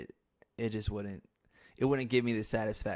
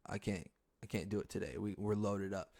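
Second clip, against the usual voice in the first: lightly voiced shop worker; 3 semitones lower, 7 dB quieter than usual. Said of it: "And they're like".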